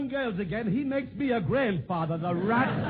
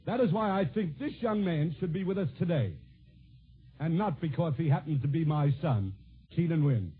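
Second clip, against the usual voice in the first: earnest, measured tribute without the clowning; sincere introduction; 3 semitones lower than usual. Real, not acted. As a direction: drop the comic mask and speak as a proud father. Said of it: "permit me to drop my comic mask".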